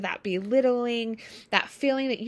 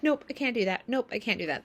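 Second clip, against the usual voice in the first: curt refusal; faster than usual. Shown as a demonstration. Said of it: "That's actually not a good boundary".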